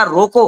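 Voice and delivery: रोको set apart as its own command; pause after रोको. Shown as a demonstration. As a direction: say रोको, then stop before the rest. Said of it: "अर्थ था". (रोको कहकर साफ़ विराम)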